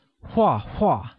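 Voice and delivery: 画画 slow, each syllable falling sharply in pitch. Shown as a demonstration. Teacher translates drawing, 画画 slow with two falling tones. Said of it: "pronounced with a falling tone".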